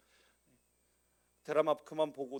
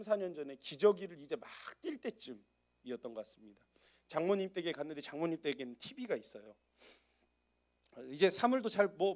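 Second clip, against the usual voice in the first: ordinary delivery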